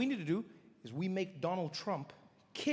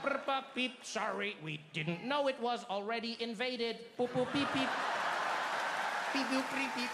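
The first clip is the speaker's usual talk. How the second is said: robot alien beeps. Acted. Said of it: "They'd be like".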